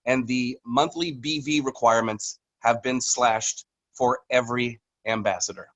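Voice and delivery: slow reveal with long suspense pauses; slow, teasing read. Real, not acted. Company executive teasing ambassadors with an announcement, read slowly. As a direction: tease it out, making them wait. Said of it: "read this really slow just to kind of tease you guys".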